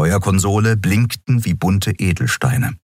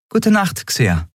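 higher but settled reply, falling; Andriel's goodnight; 12 semitones higher, slower than usual. A narrator's reading. Captain answers Xea's goodnight, simply. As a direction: answer simply, letting it fall.

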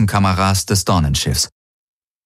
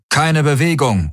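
higher-pitched mock bellow; bellowed command; 7 semitones higher than usual. A narrator's reading. Golvonen storming the ship's heart, bellowed command. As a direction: order everyone to freeze, raised voice. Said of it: "Sie brüllten".

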